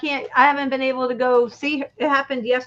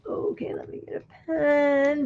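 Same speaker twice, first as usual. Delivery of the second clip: whispering; 3 semitones higher, 4 dB quieter than usual. Real, not acted. Muttered aside off camera.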